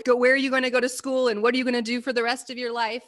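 fast, rattled-off mock interrogation; mocking how adults pressure teenagers, fast and rushed; mock pushy questions. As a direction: fire the questions like nagging adults.

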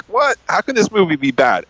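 high-pitched, incredulous "what"; acted-out bafflement; retold disbelief. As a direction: react in mock astonishment, starting high. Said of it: "I've been like".

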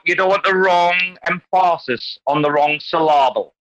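"emphasis" and "syllable" stressed on their middle, "em-FAH-sis", "sy-LAH-ble"; deliberately misplace the stress in "emphasis" and "syllable"; wrong syllable stressed. Shown as a demonstration. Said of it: "the right emphasis has to be on the correct".

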